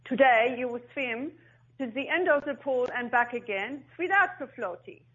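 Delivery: put-on Dutch accent. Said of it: "with his very deep, d-, you know, thick Dutch accent".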